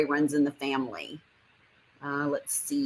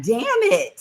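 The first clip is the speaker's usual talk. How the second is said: loud, high-pitched retold cry of frustration; acted-out "oh no" outburst, pitched way up; exasperated outburst; 6 dB louder than usual. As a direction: blurt it out in mock exasperation. Acting out own exasperated reaction.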